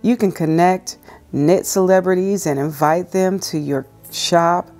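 calm, measured reading aloud; devotional reading. Acted. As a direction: read it gently like a devotional.

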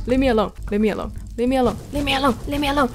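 repeated frantic pleading; panicking gamer. Real, not acted. Begging enemy while low health.

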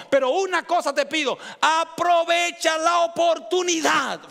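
fervent preaching in the voice of Jesus; impassioned Jesus. Acted. Voicing Jesus to the woman.

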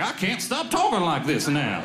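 mock-fancy Southern gentleman accent; plantation owner Southern accent. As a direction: put on a monocled Southern toff's accent. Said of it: "screw in a monocle and be like".

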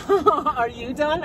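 drawn-out mocking copy of his question; squeaky falsetto mockery. Mocks his question back.

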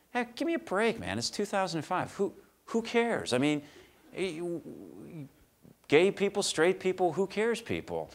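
high, incredulous and animated; exasperated. Retold or imitated. Telling the fundraiser off, high and incredulous. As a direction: throw up your hands at the question. His retold reply to fundraiser.

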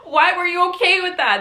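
high scolding through a laugh; mock-indignant question; retold self-anger. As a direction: berate yourself, half laughing. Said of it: "that's where the anger comes in".

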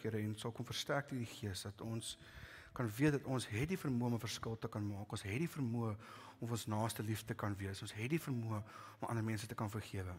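earnest closing prayer, measured and steady. Acted. Pastor praying for the congregation, earnest prayer voice. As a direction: pray over the congregation with eyes closed.

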